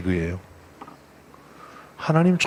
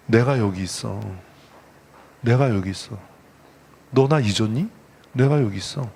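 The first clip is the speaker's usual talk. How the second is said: tender call of God; 5 semitones lower than usual. Acted. God calling hidden people.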